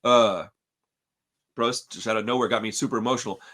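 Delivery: fighting back tears over a lost friend; choking up. Real, not acted. Remembering his late friend Frankie, choked up. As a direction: voice dropping low as real tears come. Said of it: "I'm gonna start crying".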